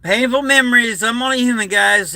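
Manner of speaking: fighting back tears, pitch breaking upward; real emotion pushing the voice up; choked up. Real, not acted. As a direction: voice cracking high with grief. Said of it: "I just brought back some bad".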